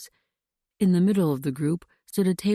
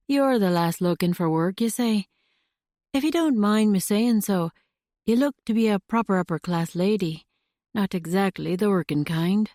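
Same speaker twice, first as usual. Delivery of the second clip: put-on Scottish accent; 3 semitones higher than usual. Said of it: "His accent was unmistakable and charming".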